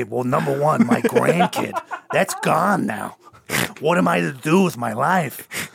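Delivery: slow, mock-tragic old man; mourning grandpa. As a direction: lament the lost glory, hammed up. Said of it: "I used to be able to say".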